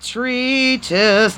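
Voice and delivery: treatise said as "reetus"; confident final try. Shown as a demonstration. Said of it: "Okay, got it".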